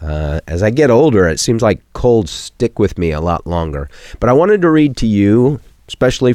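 croaky voice with a head cold; hoarse from a cold. Real, not acted. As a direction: talk with a frog in your throat. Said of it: "I may sound like, uh, I swallowed a frog".

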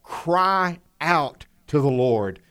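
slow, drawn-out stress on "Cry out"; "Cry out" said slowly with deliberate emphasis; emphatic cry out. Shown as a demonstration. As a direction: stretch "Cry" and "out" as separate, weighted words. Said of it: "Do you catch the, the emphasis".

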